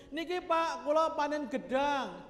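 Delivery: farmer offering harvest. Acted. Farmer calling to his neighbour with bananas, lightly acted offer. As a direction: act out a farmer handing over his crop.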